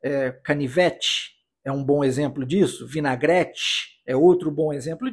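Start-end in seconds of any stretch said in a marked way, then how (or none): 0.4-1.3 "canivete" with the last syllable as "chi". Shown as a demonstration. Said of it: "ele tem um som de ti". 2.9-3.9 "vinagrete" ending in "tchi"; "vinagrete" with a "ch" sound in the last syllable; T said as "chi". Shown as a demonstration. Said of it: "ele tem um som de ti".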